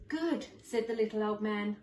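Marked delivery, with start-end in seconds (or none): 0.1-0.5 put-on pleased old man.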